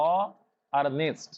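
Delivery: "অ", then "নেস্ট", each syllable said separately; split into syllables. Shown as a demonstration. Teacher showing students the two syllables, split apart. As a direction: break the word into "অ" and "নেস্ট". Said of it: "অনেস্টের দুটো syllable".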